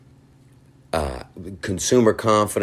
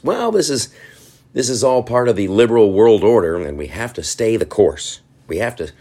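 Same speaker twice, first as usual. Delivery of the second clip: mock confident pundit; 3 semitones higher, 3 dB louder than usual. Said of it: "just said it with confidence".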